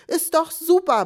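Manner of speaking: bright mock-cheerful husband on the phone; husband's cheery claim. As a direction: lightly voice the optimistic husband brushing it off. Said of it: "behauptete mein Mann".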